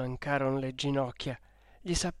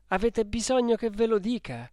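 higher, louder indignant question; hurt protest; 6 semitones higher, 5 dB louder than usual. A narrator's reading. Renzo challenged by Lucia on coming, indignant. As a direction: push back, wounded.

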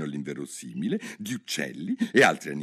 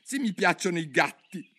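higher squeaky mouse voice; mouse squeak; 9 semitones higher than usual. Acted. The mouse retorts to Alice, high squeak. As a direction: squeak it out indignantly. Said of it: "squittì il topo".

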